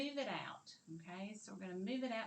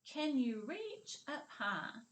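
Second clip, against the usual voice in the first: slow choral repeat; 3 semitones higher, slower than usual. Shown as a demonstration. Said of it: "Say it with me".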